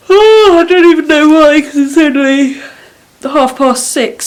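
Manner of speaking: loud, high shocked exclaim; shocked at how early; surprised. Real, not acted.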